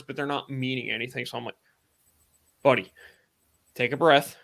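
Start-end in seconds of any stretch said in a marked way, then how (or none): 2.6-4.4 steady, spaced-out reassurance, retold; measured buddy-to-buddy calming. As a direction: talk a rattled friend down, pausing between phrases. Calming a panicking friend, retold.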